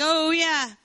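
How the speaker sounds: high, drawn-out sarcastic jeer; mock taunting. People mocking Jeremiah about what God said, taunting. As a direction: jeer it as if you believe none of it. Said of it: "begin to taunt him with that and mock him".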